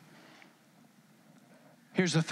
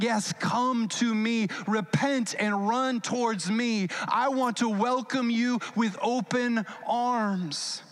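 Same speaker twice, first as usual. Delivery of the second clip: slower, higher, drawn-out invitation; earnest welcome; 4 semitones higher, slower than usual. Acted. God welcoming the repentant with open arms, earnest welcome. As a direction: call them in, stretching the words. God calls sinners to himself.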